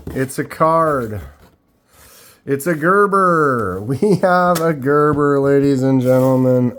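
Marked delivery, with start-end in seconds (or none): 2.5-6.7 excited announcement. Real, not acted. Showman announcing the knife.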